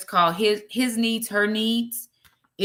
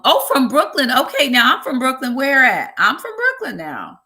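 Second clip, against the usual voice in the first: excited Brooklyn pride; 5 semitones higher, 6 dB louder than usual. Real, not acted.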